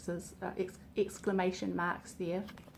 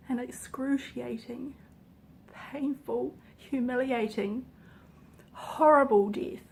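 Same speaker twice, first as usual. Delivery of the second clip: emotional build; 3 semitones higher, slower than usual. Real, not acted. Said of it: "I wasn't intending on getting emotional".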